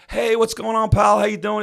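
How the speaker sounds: high-pitched, upbeat imitation of an old pal; hearty phone greeting. College friend calls out of the blue, hearty greeting. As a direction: greet a long-lost buddy on the phone.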